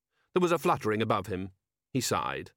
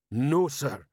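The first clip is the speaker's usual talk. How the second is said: dim troll, slightly higher; slow-witted troll sergeant; 3 semitones higher than usual. Acted. Troll sergeant asking his commander, dim troll voice.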